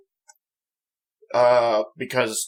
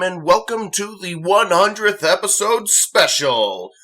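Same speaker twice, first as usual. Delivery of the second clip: excited intro; 8 semitones higher, 4 dB louder, slower than usual. Acted. Channel intro greeting.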